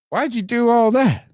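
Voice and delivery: high, incredulous retold question; mock-appalled, pitched well up; retold disbelief. Acted alarmed question in story.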